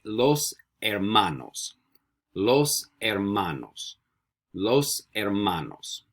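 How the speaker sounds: very slow, drawn-out "los hermanos" without an H; slow model pronunciation. Shown as a demonstration. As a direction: stretch out "los hermanos" for learners to repeat. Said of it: "You say".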